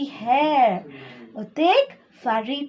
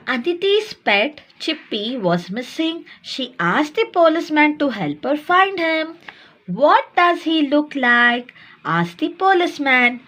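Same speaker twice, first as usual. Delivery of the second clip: measured read-aloud for small pupils; story reading aloud; 2 semitones higher than usual. A narrator's reading. Teacher reading a textbook story to little ones, read-aloud. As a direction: read it out clearly, phrase by phrase.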